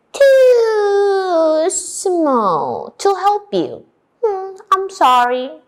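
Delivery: high, slow, drawn-out mouse voice; tiny high voice, stretched out; apologetic little mouse. Acted. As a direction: squeak out a regretful refusal. Mouse refuses wolf in story.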